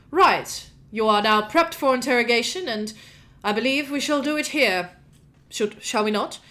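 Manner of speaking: lightly voiced archmage; Thomas Darkdraft. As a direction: announce it like a mage in charge of questioning. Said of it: "Archmage, um, Thomas Darkdraft".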